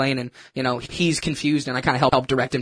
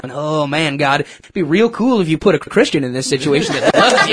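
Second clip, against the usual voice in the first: mock prayer; 6 dB louder than usual. Mocking his own silent prayer.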